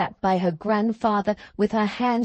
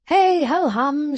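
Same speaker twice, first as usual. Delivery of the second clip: higher, drawn-out cheery sigh; cheerfully repressed sigh; 7 semitones higher, 4 dB louder than usual. A narrator's reading. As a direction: sing out a sigh, slowly and brightly. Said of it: "cheerfully repressing a sigh".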